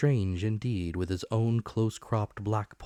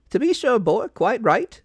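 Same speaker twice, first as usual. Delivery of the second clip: higher and louder, a bustling, eager supervisor; excitable officer voice; 12 dB louder than usual. A narrator's reading. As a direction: play the keen revenue officer, pitched up. Mister Dance voiced in story.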